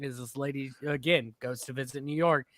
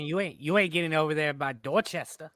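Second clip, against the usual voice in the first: put-on Boston accent; 3 semitones higher than usual. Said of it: "The Boston accent is more like".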